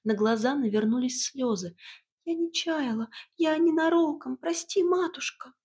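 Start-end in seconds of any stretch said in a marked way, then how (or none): 2.2-5.5 high, trembling little voice near tears; trembling tearful voice. A narrator's reading. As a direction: plead through welling tears. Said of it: "голосок Василисы задрожал". (дрожащим голоском сквозь слёзы)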